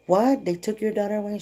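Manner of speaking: high-pitched incredulous reaction; re-enacted astonished questioning; retold shock. Retelling her shocked reaction.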